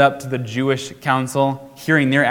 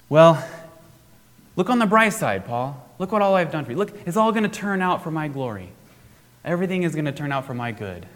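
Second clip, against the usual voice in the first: higher, breezy hammed-up cheerfulness; mock cheery platitude; 4 semitones higher, faster than usual. Pretend Jesus brushing off Paul's trouble with cheery glibness. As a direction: sell a glib bright side. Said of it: "Notice he doesn't say".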